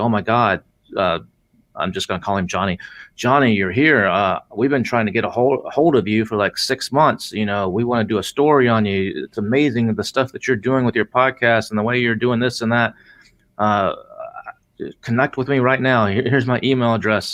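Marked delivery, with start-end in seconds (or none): none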